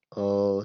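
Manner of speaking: अ voiced from the throat, held; teacher sounds अ from the throat; throat vowel demo. Shown as a demonstration. Teacher shows students the throat sound अ, held. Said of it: "जैसे मैं अ बोलूँगा देखिए".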